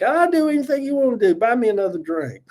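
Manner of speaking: high coy voice offering anything; hammed-up flirt cadging a drink; coy flirty plea. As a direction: bat your eyes and beg for a drink. Retelling his flirty bar self.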